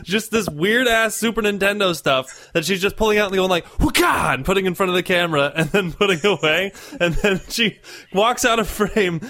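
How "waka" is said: high, playful exclamation; mock showing-off cry. Imitating her shoving goodies at the camera, mock excited.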